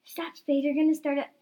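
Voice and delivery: high yell, stretched out at the end; loud, high-pitched panicky yell; yelled warning. A narrator's reading. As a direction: cry out a drawn-out alarm. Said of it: "yelled Caddy and Spade".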